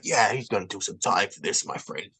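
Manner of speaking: mock South African cop, relaxed and unbothered; a light South African accent, easygoing, like a cop who doesn't care; imitated South African accent. South African officer shrugging it off to the victim, light South African accent. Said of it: "He sounded just like niggas from fucking Lethal Weapon two".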